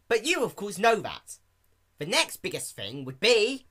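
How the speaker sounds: high, loud, cocky lecture; boasting Rainbow Dash. Acted. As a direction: show off like a master.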